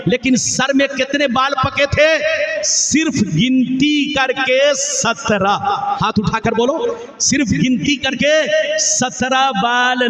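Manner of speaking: impassioned preaching to a crowd; full-force devotional preaching; fiery sermon. Acted. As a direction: preach it out, rising and falling with fervour. Stage sermon with Arabic recitation.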